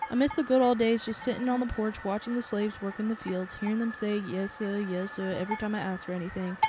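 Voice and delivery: put-on mild southern accent, bitter old man reminiscing; lightly voiced Southern farmer, resentful. Old farmer laments his lost days, light southern accent. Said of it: "I hope you like my southern accent".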